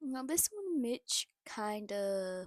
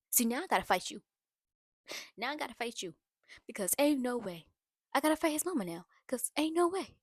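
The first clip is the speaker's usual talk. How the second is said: louder, higher, rising outrage; real irritation; 3 semitones higher, 6 dB louder, faster than usual. Real, not acted. Vlogger reacting to the mother-in-law, heated loud outrage. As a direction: build up heated disbelief. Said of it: "that whole conversation just irritated me".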